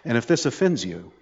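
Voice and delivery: soft, resolute recital of policy; quietly firm. Retold or imitated. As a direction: imitate an unbending official, softly. Retold vice president stating school policy.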